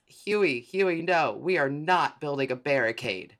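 loud, high, drawn-out scolding of a brother; exasperated protest. Acted. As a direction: cry out in dismay to stop him. Acts out story's exasperated last line.

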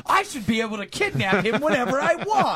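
hammed-up indignation; mock outrage. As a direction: protest like an indignant taxpayer. Mock outrage of entitled taxpayer.

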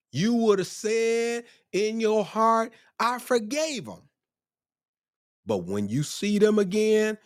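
high, drawn-out preacher's cry; worked-up preaching. Real, not acted. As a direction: get worked up, stretching each phrase high. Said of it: "I'm getting worked up now".

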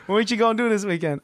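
casual, laughing through the impression; Gen Z coworker. Imitating coworker asking about weekend plans. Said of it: "But he said".

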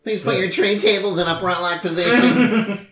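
announcing to the cabin, lightly; flight attendant. Pretend. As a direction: cabin crew PA voice, half-joking.

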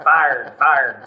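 "fired" said in two clear syllables; plain "fired" without twang; standard English. Shown as a demonstration. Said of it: "I can talk normal".

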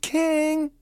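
high shout of a name. Acted. Boy shouts to wake the sleeping king, loud and high. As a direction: yell to wake him.

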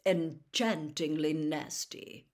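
put-on slow, dry amused old wizard; twinkling. Headmaster dryly praises the reporter's nasty article. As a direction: savour the irony. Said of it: "his eyes twinkling".

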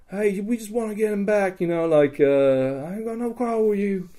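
high, projected negotiation voice; retold placating appeal. Player asks for captive back, high placating appeal. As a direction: talk the captor down from afar.

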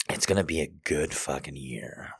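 soft unvoiced whisper. Real, not acted. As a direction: breathe the words in a whisper. Whispered lines.

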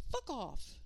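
put-on high sweet child swearing; piping and sweet like a songbird. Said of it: "voice came out piping and sweet".

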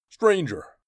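loud, high sneering call; mock him with the word; taunting barbarian. Thord taunts the bound stranger, loud and sneering. Barbarian rousing beaten captive.

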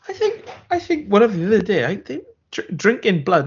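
high, halting, hammed-up worry; mock unhinged captain. Captain reporting blood drinking to his vlog, mock fearful. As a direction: stammer upwards as a captain losing it.

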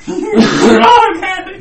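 high, loud yelling protest; high shout. Real, not acted. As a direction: shout it at your friend. Teasing outburst.

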